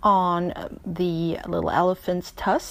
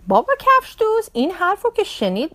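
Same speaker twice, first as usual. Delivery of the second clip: plain reading voice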